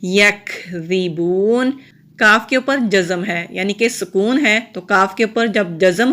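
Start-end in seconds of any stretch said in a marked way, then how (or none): 0.0-1.7 یکذبون chanted slowly, the واو held one alif long; slow recited word. Shown as a demonstration. Teacher models یکذبون with the long vowel. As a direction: draw out یکذبون in measured recitation. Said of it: "ایک الف کے برابر لمبا".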